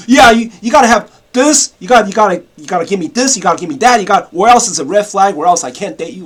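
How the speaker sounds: loud, insistent listing of demands; mock demanding girl. Modern girlfriend nagging her date, loudly demanding. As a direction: rattle off demands like a spoiled girlfriend. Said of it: "They don't have, like".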